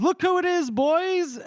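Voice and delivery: a hammed-up swaggering mercenary, pitched high; Casca voice. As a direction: boom it out like a smug old soldier greeting his company. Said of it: "I know that tone of voice you're using".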